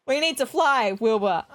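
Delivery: mildly insistent call, falling on the name. Acted. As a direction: press the co-pilot, half in play. Orville keeps calling Wilbur.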